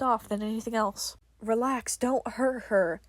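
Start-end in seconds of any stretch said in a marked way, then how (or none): 1.4-3.0 pleading. Acted. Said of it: "John pleaded".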